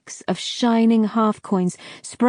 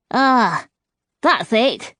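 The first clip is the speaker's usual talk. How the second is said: whistled; 3 semitones higher, slower than usual. A narrator's reading. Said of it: "whistled Tooth".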